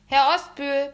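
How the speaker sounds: loud, high yell; boy yelling back to his mother in the kitchen. Acted. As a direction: bellow it down the hall. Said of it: "brüllte ich zurück".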